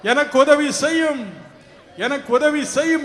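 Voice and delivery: preacher voicing a helpless prayer; crying out to God. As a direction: plead as one with nobody left. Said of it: "என்று அவரை நோக்கி கதறுவீர்களா?".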